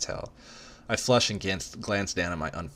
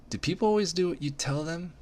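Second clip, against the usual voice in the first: much higher, disbelieving; incredulous; 12 semitones higher than usual. Acted. Narrator after his curt call, much higher incredulous. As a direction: ask in high disbelief.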